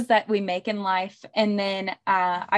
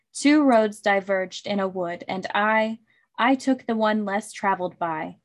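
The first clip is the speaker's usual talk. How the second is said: measured poetry reading; poem recitation. Acted. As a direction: read the verse aloud, line by line.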